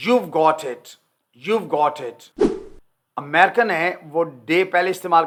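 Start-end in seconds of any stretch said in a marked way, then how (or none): 0.1-2.5 slow British phrase. Shown as a demonstration. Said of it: "British में have का इजाफा करके बोलेगा".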